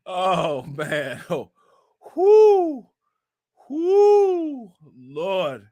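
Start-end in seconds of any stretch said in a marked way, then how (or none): 2.2-4.7 long, high falling "whoo"; high whoops. Real, not acted. Streamer recovering from a funny post, high whoops. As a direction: let out real high whoops after laughing.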